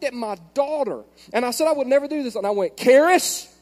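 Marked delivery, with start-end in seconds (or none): 2.8-3.5 high, loud, drawn-out mock threat exploding into a shout; retold parental yelling. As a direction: act out a dad yelling at his child, word by word. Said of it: "'cause I'm yelling".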